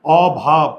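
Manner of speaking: অভাব as "aw... bhab" with open first vowel; jaw-open pronunciation. Shown as a demonstration. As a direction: sound out অভাব in two careful beats. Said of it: "মুখের চোয়াল খুলে গেলে".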